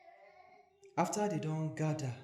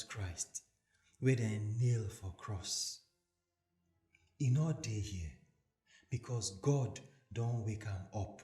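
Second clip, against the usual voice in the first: gentle angel; 4 semitones lower than usual. Acted. Angel speaks to the women.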